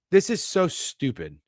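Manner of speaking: slow, exasperated complaint; upset. Real, not acted. Bettor fed up with the matchup, upset. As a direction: spell out your exasperation, slowly. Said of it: "I'm sorry that you're upset".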